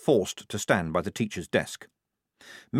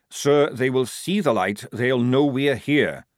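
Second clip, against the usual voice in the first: put-on slow, over-patient as if to a child; patient explaining; 4 semitones higher, 4 dB louder than usual. Sergeant explaining to the lieutenant, slow and patient. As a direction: spell it out to a slow pupil. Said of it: "as though repeating things to a child".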